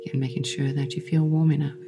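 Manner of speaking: calm meditation voice with long pauses; unhurried, soothing yoga nidra guidance; guided meditation. Acted. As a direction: guide them gently into rest, leaving space between phrases.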